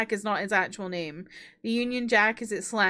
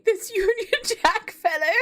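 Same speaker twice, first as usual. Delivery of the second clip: lightly voiced posh old British judge; a hint of a doddering British gentleman; posh British old man; 8 semitones higher, 3 dB louder, slower than usual. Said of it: "voicing this man to sound like a posh British old man".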